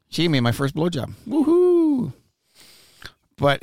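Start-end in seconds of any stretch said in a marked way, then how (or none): 1.3-2.1 high, loud whooping cheer. Real, not acted. Cheering over his teenage conquest, loud whoop. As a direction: let out a triumphant whoop. Cheering about first blowjob.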